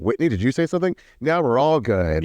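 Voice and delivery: high mock condescending question; mock patronizing man. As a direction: play the smug mediator, hammed-up. Mocking John Barlow's mediation.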